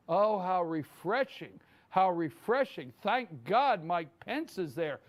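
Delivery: slow, drawn-out mock relief; sarcastic admiration, stretched out slowly; sarcastic swoon. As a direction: gush sarcastically, dragging the words. Mocking media swooning over Pence.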